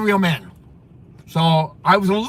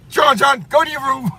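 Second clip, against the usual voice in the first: mock stern father; 7 semitones higher than usual. Imitating the father sending his son to his room, stern. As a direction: bark the order like a strict father. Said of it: "like his dad used to".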